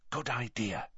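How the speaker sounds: very soft, hushed agreement; whispering. A narrator's reading. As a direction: murmur it under the breath. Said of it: "whispered Hermione".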